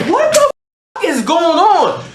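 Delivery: very high, stretched-out disbelief; shocked disbelief. Retold or imitated. Friend overhears her lying to girlfriend, shocked disbelief. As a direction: squeak it high, then drag it out. His shocked reaction to the phone call.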